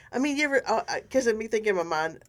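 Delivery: stumbling over the start of a thought; tripping over words while thinking aloud; stuttering. Real, not acted. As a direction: stutter and restart, words tumbling out in a rush. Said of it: "I'm, I'm stuttering".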